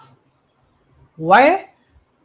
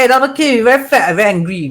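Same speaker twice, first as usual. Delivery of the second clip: angry; 3 semitones higher, 4 dB louder, much faster than usual. Retold or imitated. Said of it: "sometimes you say".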